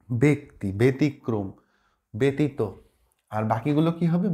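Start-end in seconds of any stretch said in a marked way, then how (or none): 0.1-2.6 "ব্যক্তি", "ব্যতিক্রম", "ব্যতীত" each opening on be; closed be vowel. Shown as a demonstration. Teacher drills three words to remember, each starting be. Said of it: "এই তিনটা শব্দ ভালো করে".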